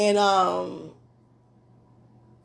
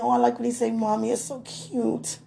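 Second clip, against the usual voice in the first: cooing; 5 semitones higher than usual. Retold or imitated. Gushing over his cute word.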